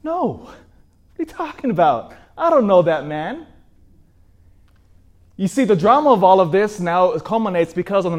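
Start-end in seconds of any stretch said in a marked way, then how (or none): 0.0-3.5 panicked denial. Acted.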